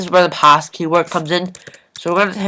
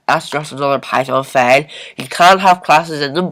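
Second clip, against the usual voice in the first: ordinary delivery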